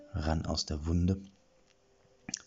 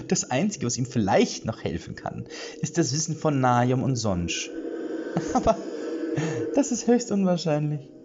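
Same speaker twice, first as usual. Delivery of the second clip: higher witch voice, ending in a hiss; gloating witch; 6 semitones higher than usual. Acted. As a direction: savour the perfect plan. Witch gloats over her plan. (selbstgefällige Hexe)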